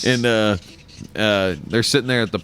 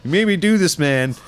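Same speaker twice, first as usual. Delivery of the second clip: Stewie voice; 7 semitones higher than usual. Retold or imitated. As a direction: yell it like a tiny gangster. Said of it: "be like".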